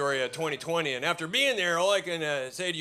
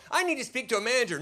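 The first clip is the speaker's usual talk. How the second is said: middle-class English woman; 5 semitones higher than usual. Retold or imitated. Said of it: "some middle-class English woman are like".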